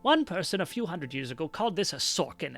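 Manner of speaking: put-on old Kender librarian. Librarian invites visitor to walk and talk, delighted old voice. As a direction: ramble happily in an old woman's voice.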